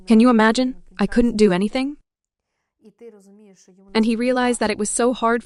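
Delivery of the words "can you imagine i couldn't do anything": anguished outcry. Retold or imitated. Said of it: "He said".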